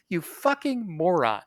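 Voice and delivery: muttered insult. Retold or imitated. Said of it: "I didn't say that part to him".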